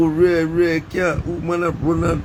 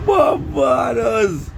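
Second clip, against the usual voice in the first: slow drawn-out shout, much higher; shouted name; 8 semitones higher, much slower than usual. Real, not acted. Vlogger shouting out Barbados to viewers, slow and high. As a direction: call the word out long and high. Calling out place mid-laugh.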